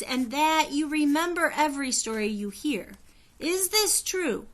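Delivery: high, loud, slow queenly voice; high bell-like voice. A narrator's reading. Queen Anne addressing Augusta, high and ringing. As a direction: ring out clear like a bell. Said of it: "Her high, clear voice rang like a bell".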